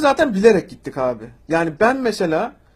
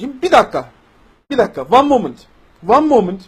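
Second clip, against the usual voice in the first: exasperated; 3 semitones higher, 7 dB louder than usual. Real, not acted. Exasperated interruption of a comment.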